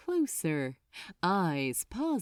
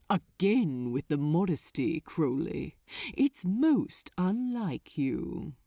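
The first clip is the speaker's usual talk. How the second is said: gentle dismissal; 2 semitones lower than usual. Acted. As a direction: brush him off like a child. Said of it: "Asmodeus gently cut through him".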